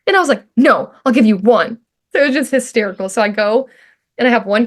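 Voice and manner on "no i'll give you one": loud, emphatic mock refusal; retold stubborn refusal. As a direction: dig in, imitating a stubborn freshman. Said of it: "a stubborn freshman".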